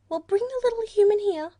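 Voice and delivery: the creature relenting, now friendly; friendlier platypus. A narrator's reading. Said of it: "in a more friendly tone".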